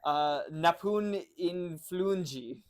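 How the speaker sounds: Napun influenji spoken slowly, syllable by syllable; fake foreign language. Shown as a demonstration. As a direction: sound out Napun influenji carefully. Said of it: "bad influence in Goblin".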